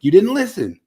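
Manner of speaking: retold yell, high and loud at first, easing off; mock-yell at the screen, then settle; retold screaming. Viewer yelling at podcasters on screen, retold exasperated yell. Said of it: "I'm, like, screaming at the screen".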